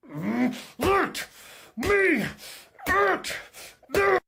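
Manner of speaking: words drawn out, very high, near a cry; desperate begging. Acted. Eager pilot begs to be let out at the bombers, high and wailing. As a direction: plead to be let loose.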